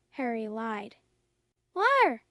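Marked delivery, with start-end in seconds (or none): 1.8-2.2 a higher, louder accusing shriek; a sharp higher shout of liar. Acted. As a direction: spit the accusation out at full volume. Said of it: "Umbridge shrieked".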